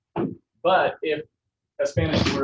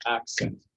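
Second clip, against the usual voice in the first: "Accent" said as two beats, Ac-cent; two separate beats. Shown as a demonstration. Teacher counting beats for class, "Accent" split in two. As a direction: sound out "Accent" syllable by syllable. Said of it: "It's a two-beat word".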